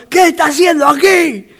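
lightly acted stern questioning; drill instructor demand. Instructor questioning a recruit found hiding, lightly acted demand. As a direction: play an instructor demanding an explanation.

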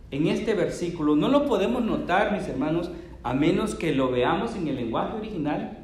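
usual speaking voice

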